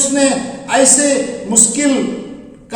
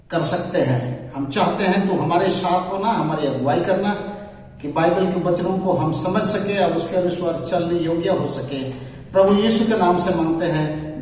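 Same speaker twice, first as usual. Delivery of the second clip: subdued, slightly lowered praying voice; opening prayer; 4 semitones lower, 4 dB quieter than usual. Real, not acted. Preacher asks the Lord to guide the congregation, prayerful. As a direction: pray quietly and reverently, letting line ends sink.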